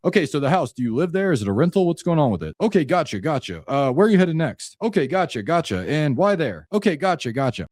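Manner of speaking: rattling off questions like a checklist; checklist questioning. Shown as a demonstration. Coach shows the wrong way to question a seller, detached checklist delivery. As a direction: tick boxes, no real interest. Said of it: "going through a checklist like this".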